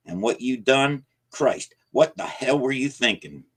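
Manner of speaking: put-on old man impatient and alarmed; impatient anger. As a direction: cut him off hard. Jacob cuts him off angrily.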